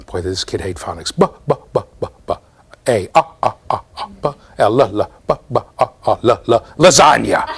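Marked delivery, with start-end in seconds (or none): 1.2-6.7 imitating a kid grinding through letter sounds; mock child sounding out ball, laughing near the end. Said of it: "He's sounding out ball". 6.8-7.5 imitating the kid's answer. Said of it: "He's sounding out ball".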